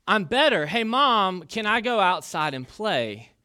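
put-on a kid suddenly perked up, asking to go play; bright and eager, begging mom. Boy pleading with his mom to go outside, eager.

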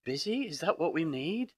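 a lightly hammed-up bafflement at "Busy?"; incredulous. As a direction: toss the word back in disbelief. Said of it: "And you go".

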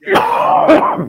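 high shrieking laugh on yeah. Real, not acted. Still cracking up at his story, high and loud.

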